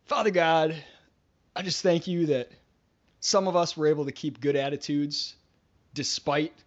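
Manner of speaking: lightly voiced pious jab at the other team; mock prayer. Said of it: "someone's like".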